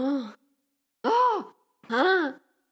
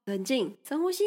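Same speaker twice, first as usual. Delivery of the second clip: calming down; 2 semitones lower, 6 dB quieter than usual. Real, not acted.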